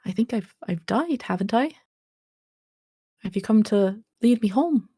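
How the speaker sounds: put-on high, sweet old lady voice; a frail granny waking, high and gentle. Dead granny greets the stranger, in a high sweet old voice.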